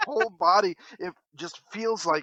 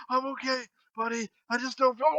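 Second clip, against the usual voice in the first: higher, softer, strained sick-dad voice; queasy reassurance; 7 semitones higher, 4 dB quieter than usual. Retold or imitated. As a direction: reassure your kid between heaves. Sick dad reassures son between heaves.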